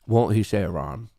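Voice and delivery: counter-question dropped back down low; teasing counter-question. Pretend. Streamer weighing the other side of the bet, low teasing counter-question. Answers the high take, lower.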